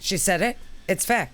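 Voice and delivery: whisper. Real, not acted. Whisper heard.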